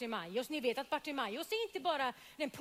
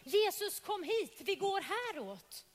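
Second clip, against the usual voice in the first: raised voice calling across a crowd; 6 semitones higher than usual. Acted. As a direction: call out to him from a distance. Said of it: "som ropar namnet Jesus".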